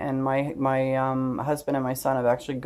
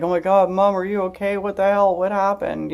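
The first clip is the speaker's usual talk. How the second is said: higher, frantic questions from a worried son; panicked son; 6 semitones higher, 3 dB louder than usual. Retold or imitated. Son finding his mother collapsed, asking in a panicked, higher voice. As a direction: imitate a scared son, almost in tears. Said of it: "so he's freaking out".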